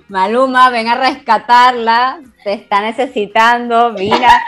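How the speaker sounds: playful laughing call to a star; mock plea to a singer. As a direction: laugh while calling the singer to come help. Calling the singer to rescue her.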